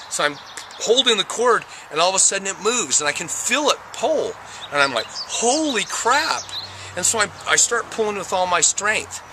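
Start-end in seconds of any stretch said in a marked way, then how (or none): 5.1-6.4 high, slow drawn-out holy crap; stunned, much higher exclamation; astonished. Retold or imitated. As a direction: let the shock stretch it out. Feels the cord pull.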